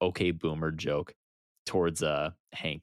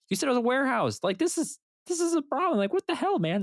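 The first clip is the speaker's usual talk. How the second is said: high, loud alarmed yelp; mock-panicked guard, much higher and louder; panicked henchman; 3 dB louder, faster than usual. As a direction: squeal it like a guard who just got caught. Panicking henchmen voiced in retelling.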